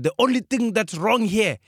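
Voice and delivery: high, lingering flirty cop voice. Retold or imitated. Cop to driver, admiring the car, flirty drawl. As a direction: play the smitten traffic cop.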